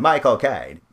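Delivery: loud, slow film-star impression; Michael Caine. Podcaster listing actors with unchanging voices, loud slow impression. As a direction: punch out the name in his voice. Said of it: "they always sound the same".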